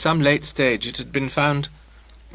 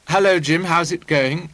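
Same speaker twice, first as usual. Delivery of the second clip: higher, louder, very clear greeting; abnormally clear voice; 5 semitones higher, 5 dB louder than usual. A narrator's reading. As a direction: ring out a clear hello. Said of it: "in her abnormally clear voice".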